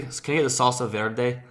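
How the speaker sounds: put-on understated Spanish accent on VERDE; unironic Spanish-style accent. White diner ordering in earnest, light Spanish accent. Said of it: "I'm not saying it ironically".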